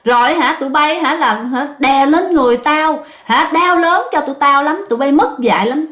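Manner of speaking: put-on a possessed old man cursing the owners; lightly voiced angry ghost; scolding ghost voice. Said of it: "chửi quá trời luôn".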